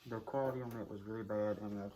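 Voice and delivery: speaking through a costume mask; muffled voice behind a mask. Real, not acted. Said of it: "my voice is muffled 'cause of the mask".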